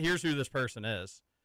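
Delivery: ordinary delivery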